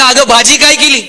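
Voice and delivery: lightly acted husband calling out. Husband calls his wife from near the sofa, calling out. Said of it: "तिथून आवाज दिला".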